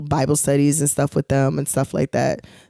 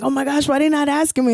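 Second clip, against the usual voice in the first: upset; 10 semitones higher, faster than usual. Retold or imitated. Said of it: "And I'm like".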